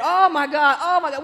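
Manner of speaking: loud giddy "oh my God"; giddy excitement. Retold or imitated. Aunt waiting for team news with sister-in-law, giddy and loud. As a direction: gush loudly like a giddy sixth grader. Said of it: "giddy and waiting".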